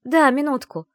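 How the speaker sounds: called back. A narrator's reading. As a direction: answer through the door. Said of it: "крикнула я в ответ". (героиня громко отвечает через дверь)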